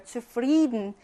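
"Zufrieden" stressed on FRIE, Zu unstressed; second-syllable stress. Shown as a demonstration. Teacher showing the accented syllable, "Zufrieden" stressed on FRIE. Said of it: "여기 강세가 와요".

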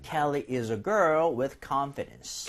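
slow, measured English for a learner to repeat; model reading. Shown as a demonstration. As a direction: read it out slowly as the teacher. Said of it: "요거 두 개 일단은 읽어볼게요". (따라 읽도록 천천히 시범 낭독)

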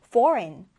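"foreign" with the G left silent. Shown as a demonstration. English teacher showing learners the word, "foreign" with silent G. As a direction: say "foreign" as FOR-in, no G sound. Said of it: "묵음 처리가 되어서".

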